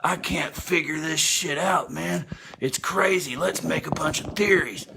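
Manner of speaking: mock confused castaways. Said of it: "And they're like".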